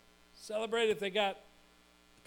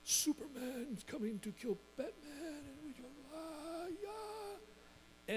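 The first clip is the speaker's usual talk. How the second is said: high, soft play voice; child playing with action figures; 9 semitones higher, 6 dB quieter, slower than usual. Boy acting out a superhero battle to himself, high and hushed. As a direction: murmur it like a boy lost in make-believe. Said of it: "engrossed in his little fantasy world".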